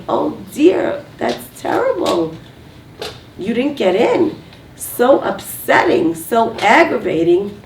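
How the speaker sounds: demonstrated empathetic reply; sympathetic. Shown as a demonstration. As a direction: feel for a disappointed spouse, stretching the words. Models sympathetic response to spouse.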